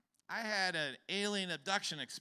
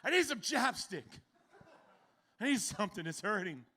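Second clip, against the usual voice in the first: loud, high pained wail; hammed-up loud howl of pain; anguished cry; 6 semitones higher, 11 dB louder than usual. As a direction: cry out in mock agony. In agony on toilet.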